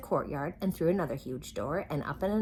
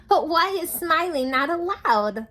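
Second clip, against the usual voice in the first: much higher, loud giggly voice; laughing question; 11 semitones higher, 9 dB louder than usual. Acted. Little Miss Sunshine laughing at the crying king. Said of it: "laughed Little Miss Sunshine".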